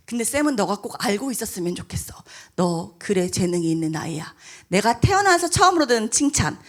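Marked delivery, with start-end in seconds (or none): 0.1-4.3 softer, breathy hushed praise; teacher whispering praise to a crying student. Retold or imitated. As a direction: whisper it like a secret.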